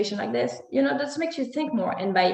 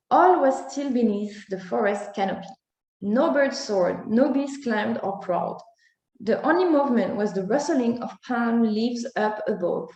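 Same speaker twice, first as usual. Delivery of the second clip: story narration. A narrator's reading. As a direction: read it like a bedtime tale for children. Reads a children's story aloud.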